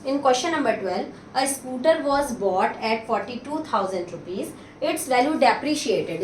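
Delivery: slow dictation of the problem; slow question reading. Acted. Teacher reads question twelve slowly to the class. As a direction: read the word problem slowly and clearly.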